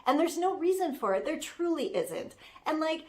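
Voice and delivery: a hint of a sassy young assistant defending her boss; Citrus Maloney. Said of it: "It's me, Citrus Maloney".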